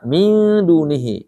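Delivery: "min dunihi" with the N held long before DU; drawn-out "min dunihi"; nasal before dal. Shown as a demonstration. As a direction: slowly hum through the n of "min". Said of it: "itu ketemu dal".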